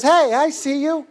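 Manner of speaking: an accidental tough-guy movie star impression; De Niro. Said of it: "why is it De Niro?".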